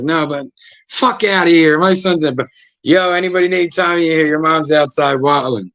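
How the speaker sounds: a hint of an irate mother; angry mom.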